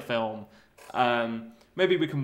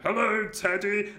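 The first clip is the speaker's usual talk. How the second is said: slow, higher, sweet little voice; childlike greeting to teddy; 6 semitones higher than usual. Acted. Lonely Bean greeting his teddy, childlike and slow.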